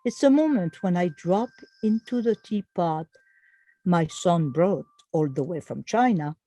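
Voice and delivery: measured, deliberately phrased poem reading; poem recitation. Acted. Poet reading A Cup of Tea with Angel, measured recitation. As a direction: recite it with pauses between the images. Reads own poem aloud.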